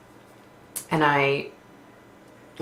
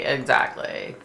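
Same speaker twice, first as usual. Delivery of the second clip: a hushed second exactly; whispered echo; slower than usual. Real, not acted. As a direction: breathe it again to yourself.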